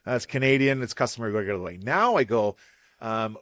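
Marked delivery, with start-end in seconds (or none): 0.0-1.8 corny stage intro. Acted. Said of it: "I used to go".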